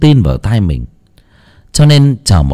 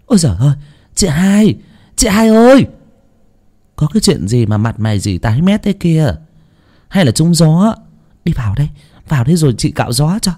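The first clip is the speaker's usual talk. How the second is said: higher, flustered woman calling out; older sister fussing over her sister, higher and flustered; flustered chatter; 5 semitones higher, faster than usual. A narrator's reading. Flustered older sister calling, higher. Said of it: "miệng nhểu nhào".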